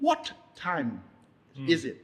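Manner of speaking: lightly imitating a posh British accent; a crisp hint of royal British English on "what time is it". Host imitating how royals speak, posh British accent. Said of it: "เปิ้นจะอู้".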